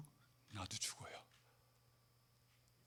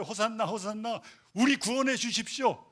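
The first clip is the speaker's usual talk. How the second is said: crowd cheering; 6 semitones higher, 5 dB louder than usual. Retold or imitated. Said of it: "뭐라고 외쳤어요".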